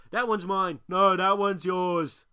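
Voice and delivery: gruff pirates squabbling. A narrator's reading. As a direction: bicker over the swords. Pirates squabbling over cutlasses.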